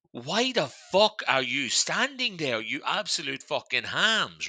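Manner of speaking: slow, drawn-out mock outrage; mock exasperation. Man on bench at tourists standing in front of him, mock exasperated. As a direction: stretch out each word in indignant disbelief.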